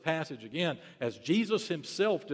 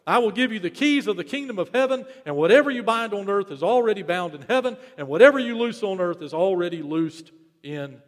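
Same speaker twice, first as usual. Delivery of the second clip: ringing proclamation; 4 semitones higher, 7 dB louder than usual. Real, not acted. Climax of Bible reading aloud.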